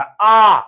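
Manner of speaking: आ held as one open vowel; long aa sound. Shown as a demonstration. Teacher isolating the sound, long held आ. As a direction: stretch आ out on its own. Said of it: "आक बोला जा रहा".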